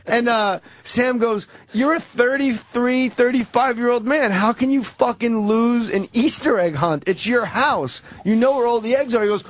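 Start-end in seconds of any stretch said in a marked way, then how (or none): 1.7-9.2 retold scolding, pitched up in disbelief; exasperated. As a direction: berate the loser, lightly acted. Retold exasperated friend berating loser.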